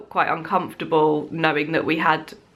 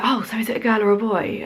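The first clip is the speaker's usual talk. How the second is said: eager quick question, pitched higher; excited; 4 semitones higher, faster than usual. Retold or imitated. Someone asking a pregnant mum about the baby, excitedly. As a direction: imitate someone excitedly asking, rushed and high. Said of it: "have someone excitedly like".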